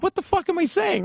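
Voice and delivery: very high, incredulous squeal; appalled at himself. Retold or imitated. Fan hears his own babble, very high mock horror. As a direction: shoot the pitch right up in mock horror.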